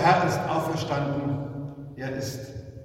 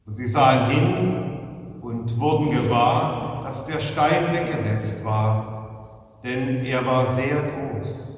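solemn gospel reading. Real, not acted. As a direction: read scripture aloud to a congregation, unhurried and clear. Reads the Easter gospel.

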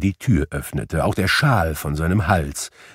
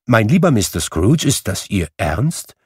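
amazed disbelief; 2 semitones higher than usual. Acted. Gentleman in disbelief.

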